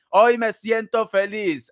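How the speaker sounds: hoy stretched out slowly and sung; slow cheerful chant; slow sing-song. Shown as a demonstration. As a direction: drawl the line like a happy chant.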